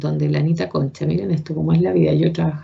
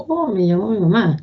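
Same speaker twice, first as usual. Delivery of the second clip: hopeful; 3 semitones higher than usual. Retold or imitated. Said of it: "ese dejo de ilusión".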